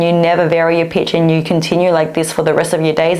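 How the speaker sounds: flat, unvarying pitch droning on; monotone. Shown as a demonstration. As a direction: talk in one dull pitch. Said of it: "just start talking like this".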